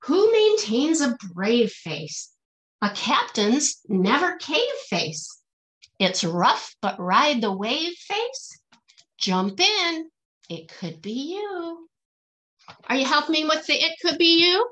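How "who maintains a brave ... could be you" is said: rhythmic, lilting picture-book verse; reading to children. Acted. Teacher reading a rhyming picture book aloud to her class, lilting and rhythmic. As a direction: bounce each rhyme for the kids, then land the refrain.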